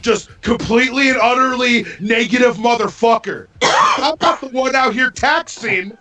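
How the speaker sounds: fed-up ranting shout; angry shout. Real, not acted. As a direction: voice rising into a heated yell. Heated rant about being called negative.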